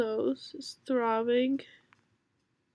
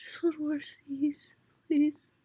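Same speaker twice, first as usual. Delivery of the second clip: whispered plea; 2 semitones higher than usual. Real, not acted. Begging for one more sneeze.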